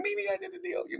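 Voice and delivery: very high, hesitant squeak of a nervous beginner; timid newbie. Retold or imitated. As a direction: squeak it out like an unsure rookie. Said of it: "And I'm like".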